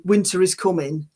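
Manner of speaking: Game of Thrones Northern accent; demonstrated Northern English lilt. Shown as a demonstration. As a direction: say it like a Northerner from Yorkshire. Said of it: "everyone that, that was from the North".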